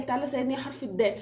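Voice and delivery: fast, lightly acted appeal for help; playful pleading. Letter Seen begs letter Dal for help, mock pleading. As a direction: coax hurriedly, as in a children's story. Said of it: "فراح يتحايل على الحروف".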